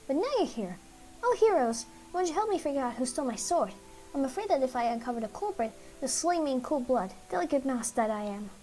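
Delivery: a hint of a theatrical mouse; fussy mouse voice. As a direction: play the dramatic little mouse begging heroes for help. Game master voices the mouse.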